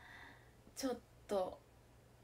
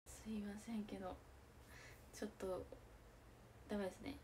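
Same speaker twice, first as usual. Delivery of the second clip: 1 quiet apology; 4 semitones lower, 12 dB quieter than usual. Real, not acted. Apologising for a taboo phrase.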